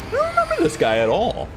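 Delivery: very high, rapid squeal; high-pitched reaction. Real, not acted. Streamer reacting to a forgotten character, fast high squeal.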